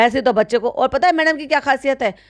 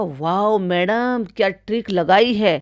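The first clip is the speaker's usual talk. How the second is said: sarcastic awe; 2 semitones lower, slower than usual. Pretend. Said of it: "तभी समझा जाएगा".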